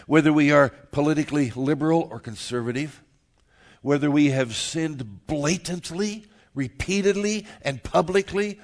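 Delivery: loud, rolling list of contrasts; emphatic preached list. Real, not acted. Pastor telling the congregation salvation is for everyone, emphatic preaching. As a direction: drive through each item with a preacher's force.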